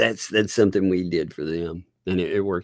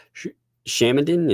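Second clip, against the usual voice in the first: ordinary talk, nothing marked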